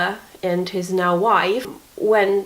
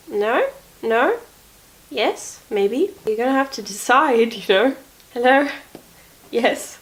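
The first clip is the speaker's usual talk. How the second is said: playful pet talk; 4 semitones higher than usual. Real, not acted. Talking to her pet.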